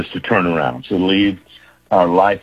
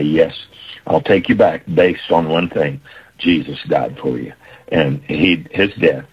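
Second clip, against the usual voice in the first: gentle voice of God; 3 semitones lower than usual. Acted. God voiced, lower and reassuring.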